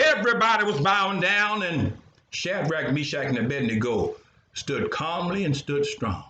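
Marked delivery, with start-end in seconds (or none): none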